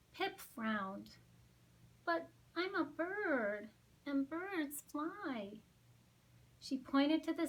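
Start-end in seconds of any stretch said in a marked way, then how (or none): 2.0-5.6 small penguin chick. Acted. Pip the chick voiced.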